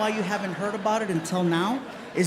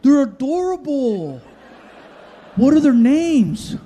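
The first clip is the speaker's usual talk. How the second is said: gushing barista; 6 semitones higher, 7 dB louder than usual. Retold or imitated. Comic retelling barista gushing at dogs.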